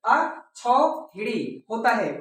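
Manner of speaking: slow, careful अक्षौहिणी with every vowel; correct pronunciation. Shown as a demonstration. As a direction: say अक्षौहिणी deliberately. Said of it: "कभी भी हा में मात्रा नहीं है तो गलत है".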